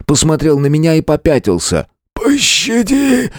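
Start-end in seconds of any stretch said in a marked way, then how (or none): 2.1-3.3 high, slow, begging bandit cry; blurted plea. Acted. Maimed bandit begging the hero for mercy, high and drawn out. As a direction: beg for mercy in terror. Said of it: "выпалил дрожащим голосом".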